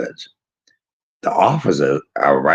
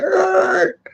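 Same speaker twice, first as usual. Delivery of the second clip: high-pitched screech noise; quick high "errr" squeal; imitated screech. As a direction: mimic a sudden high screech. Imitating car stop or guy's noise.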